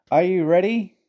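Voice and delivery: high, loud rallying call. Acted. Fat Controller to the engines before pulling, calling out. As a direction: project it upward to ready the team.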